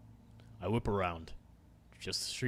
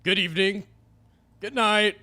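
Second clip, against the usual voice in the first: small scared voice; 10 semitones higher, 11 dB louder than usual. Acted. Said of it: "My voice feels small and foreign".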